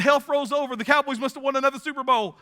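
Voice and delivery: high, singsong gleeful Texan; gleeful punchline. Retold or imitated. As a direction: crow the punchline with delight.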